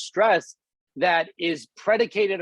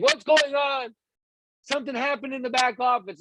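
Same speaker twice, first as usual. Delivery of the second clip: high, urgent mock panic; panicked downline member; 7 semitones higher than usual. Imitating a panicked team member calling her upline. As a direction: play the frantic caller who blames the leader.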